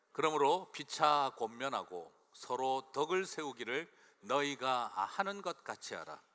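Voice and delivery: slow, measured scripture reading. Shown as a demonstration. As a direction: read the verse slowly and deliberately. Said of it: "같이 읽겠습니다". (천천히 또박또박 성경 봉독)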